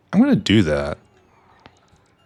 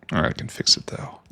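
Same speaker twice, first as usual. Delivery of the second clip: whispering; 4 semitones higher, 5 dB quieter, faster than usual. Real, not acted. Muttering to himself.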